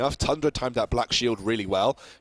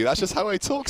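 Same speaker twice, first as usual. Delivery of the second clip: mock posh British; 9 semitones higher than usual. Defending his posh voice.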